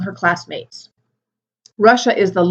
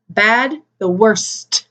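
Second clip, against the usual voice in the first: slow modeled word; much slower than usual. Shown as a demonstration. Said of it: "Be careful on your pronunciation".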